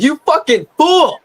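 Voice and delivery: high, drawn-out yell of exasperation; mock yell. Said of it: "I wanna yell at them".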